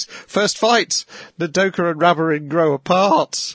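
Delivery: high, hammed-up trailer voice; mock dramatic announcement. Podcaster hamming up the episode title, high and excited. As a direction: play it like a breathless anime preview.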